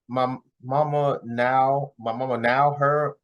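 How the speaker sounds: slowly sounding out the words; reading it out haltingly, puzzled; slow stumbling reading. Retold or imitated. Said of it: "I think what she's trying to say is".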